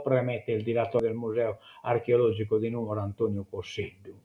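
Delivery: reading an article aloud to listeners; measured newsreader delivery; news read. Acted. (lettura di notiziario)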